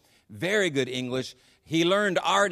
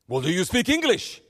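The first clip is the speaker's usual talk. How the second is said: higher, louder mock challenge; challenging tour guide; 5 semitones higher, 3 dB louder than usual. Libyan guide quizzes the American couple, with a playful challenge. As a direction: put the question as the teasing guide, pitched up.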